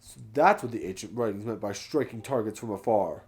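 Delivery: overjoyed researcher voice; excited Gorko. Acted. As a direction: celebrate a discovery. Reads Gorko's text in voice.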